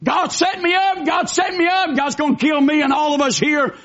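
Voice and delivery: hammed-up fearful lament of a doomed king; king of Israel crying out in hammed-up dread; mock despair. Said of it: "he said".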